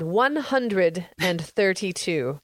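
slow, drawn-out number, announced grandly; booming announcement. Real, not acted. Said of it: "I had to say it with that really booming voice".

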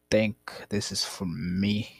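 slow unvoiced whisper, trailing off; hushed whisper. Reading the locker letter, slow hushed whisper. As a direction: whisper it slowly as the doubt sinks in.

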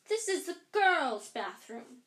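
slow, loud and suspicious. A narrator's reading. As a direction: drag it out with suspicion. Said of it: "eyeing Ron and Harry suspiciously".

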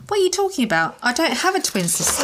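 horrified. A narrator's reading. Narrator as character denying any twin sister, mildly horrified. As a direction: voice rises in mild disbelief.

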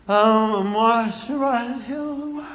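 put-on slow, mumbled small-child answer; timid little boy. Three-year-old answering the big kids, timid and slow. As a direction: imitate an awed toddler, slowly.

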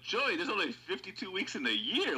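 high, laughing disbelief; laughing at a friend's dumb answer; exasperated disbelief. Retold or imitated. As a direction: scold a friend while cracking up. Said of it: "I go".

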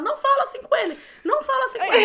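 high, loud protective yell; mock shout. Sibling yelling at a parent to stop scolding the brother, high and loud. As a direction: shout it like a kid defending his brother.

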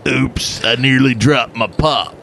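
put-on muddled redneck-English accent; redneck in England. Host retrying the line, redneck-English accent. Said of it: "It's a redneck in England".

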